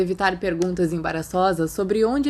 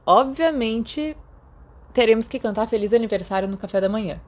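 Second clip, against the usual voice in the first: mock serious; 3 semitones higher, 3 dB louder than usual. James planning Sirius's birthday, mock solemn. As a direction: play it dead serious as a joke. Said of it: "disse James muito sério".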